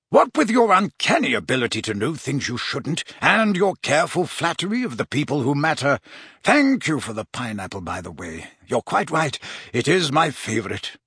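lightly voiced chummy professor; jovial Slughorn. Slughorn to Riddle about his information, playfully impressed. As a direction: tease a favourite pupil in a mildly put-on voice.

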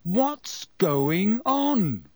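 loud interruption. A narrator's reading. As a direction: cut in loudly, bewildered. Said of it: "Harry interrupted loudly".

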